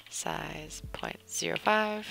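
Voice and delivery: soft slow whisper; breathy mutter to self. Real, not acted.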